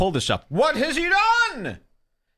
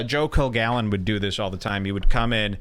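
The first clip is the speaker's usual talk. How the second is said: ordinary talk, nothing marked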